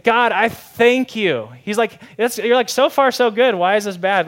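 high, loud and slow thank you; hammed-up smug gratitude; mock-pious Pharisee. Preacher mocking the Pharisee's proud thanks, hammed-up.

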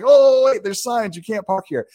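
high, rushed warning starting loud; urgent producer. Retold or imitated. Producers rushing to stop tourists parking on set, high urgent warning. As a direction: swoop in and stop them. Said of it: "my producers swoop in and they're like".

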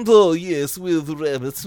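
put-on lightly done posh English accent; a hint of an upper-class English accent. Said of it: "a proper English one with, like, a corncob pipe".

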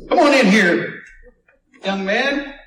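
loud, brassy radio host greeting. Pretend. Radio host inviting the healed man in, loud announcer voice. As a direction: welcome the guest like a radio host.

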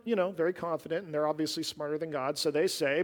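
usual speaking voice

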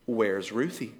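low, soft worried question; hushed worry. Retold or imitated. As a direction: ask it under your breath, uneasy. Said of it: "we're like".

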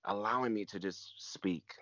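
soft unvoiced whisper, tender. Real, not acted. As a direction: hush it down to a breath as the memory moves you. Tender memory of God's presence.

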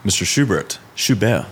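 lightly mock German name drop; German accent. Designer joking in German accent about studio founder. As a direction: roll Schubert out in a playful German accent. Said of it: "the German accent, that was me".

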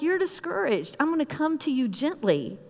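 gentle, softened reassurance. Acted. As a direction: come in gently and softly. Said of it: "God comes to Elijah gently".

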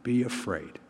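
soft, low, measured comfort; steady them gently, with a pause; quiet reassurance. Retold or imitated. Jesus to the grieving father, quiet reassurance. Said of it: "Jesus turns to him and says".

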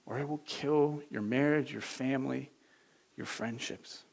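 calm, earnest warning, softening as it goes; God's caring voice. Acted. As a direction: plead gently, letting the words sink in. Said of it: "Or does it sound like this?".

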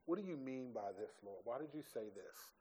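hushed, musing questions to God; inner questioning. Retold or imitated. Pastor voicing his private questions to God, hushed and musing. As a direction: quietly ask God what he means, turning it over. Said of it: "So I'm gonna be like".

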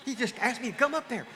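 mock scared. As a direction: pretend panic at being called up. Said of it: "you'd be scared to death".

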